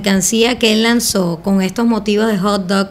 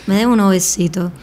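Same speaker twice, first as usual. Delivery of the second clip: put-on flirty Puerto Rican accent; 3 semitones lower than usual. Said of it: "¿Quieres una puertorriqueña?".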